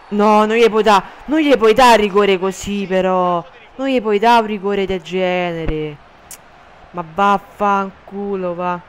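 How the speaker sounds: loud furious protest at the ref; explosive italian cursing. Real, not acted. Protesting a penalty call.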